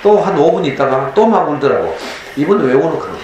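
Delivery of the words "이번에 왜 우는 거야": asked through a laugh; laughing question. Retold or imitated. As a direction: tease him fondly while laughing. Retells teasing his crying son.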